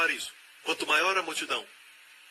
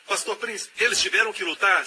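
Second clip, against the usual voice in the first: lightly voiced questioning listener, higher; imitated listener; 6 semitones higher, 4 dB louder than usual. Preacher voicing a doubtful listener's question, mildly higher. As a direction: ask it like a doubtful churchgoer.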